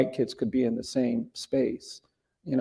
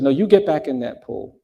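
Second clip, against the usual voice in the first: "get" hit louder, a mild retold anger; mom's firm order; 2 semitones higher, 5 dB louder than usual. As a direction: insist on it harder the second time. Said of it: "she got angry and she said".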